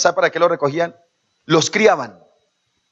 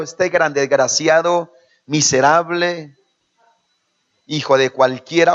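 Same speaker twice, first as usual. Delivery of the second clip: mock angry father. Preacher mimicking a father cursing his son over juice, mock angry. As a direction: drag out the insults like a spiteful dad.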